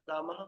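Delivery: रामः ending in a breathy extra ha after the a; with visarga. Shown as a demonstration. Teacher shows Sanskrit रामः with a sounded visarga h. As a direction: say रामः with a clear final aspirated h. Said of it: "विसर्ग लग जाएगा तो क्या हो जाएगा".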